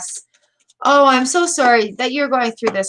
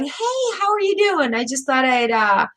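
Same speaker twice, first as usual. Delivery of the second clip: put-on old friend's hello. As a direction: lightly play a friend saying hi out of the blue. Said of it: "knocking on your Facebook door going".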